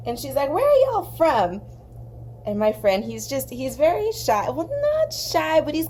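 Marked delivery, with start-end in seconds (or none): 0.5-1.6 higher, louder voice for the waitress; gruff Midwestern waitress. Retold or imitated. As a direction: play the tough diner waitress sizing her up. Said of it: "big, gruff Midwestern women".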